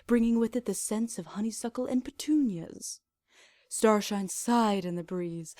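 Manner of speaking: calm, even storybook reading; story narration. A narrator's reading. Reader narrating the fanfic prologue, calm storybook voice. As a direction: read it like a gentle bedtime tale. Reads the fic aloud.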